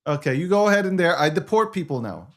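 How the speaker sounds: boastful mock strongman; dictator bluster. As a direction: play the self-declared dictator. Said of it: "Okay, Donald J. Trump".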